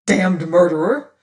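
loud accusing cry; gentleman's furious outcry; angry cry. Acted. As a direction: spit out the accusation. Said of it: "cried one of the gentlemen".

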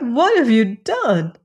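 high, loud wailing cry; crying out in grief. A narrator's reading. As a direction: sisters wail at the little peahen, high and loud. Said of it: "they cried".

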